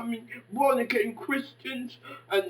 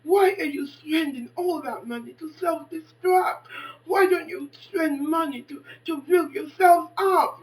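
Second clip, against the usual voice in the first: raised lecture; 4 semitones higher, 5 dB louder than usual. Retold or imitated. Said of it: "I said to her".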